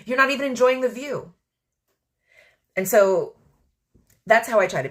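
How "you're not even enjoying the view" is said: high, sassy, soothing big-sister voice; the universe teasingly telling her to relax; the universe coaxing. Retold or imitated. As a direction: coax her to lie down and relax. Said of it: "the universe is literally like".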